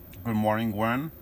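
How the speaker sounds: talking through a mouthful of food, chewing. Returning a good-morning greeting while eating breakfast, talking with mouth full. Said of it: "I have my mouth full".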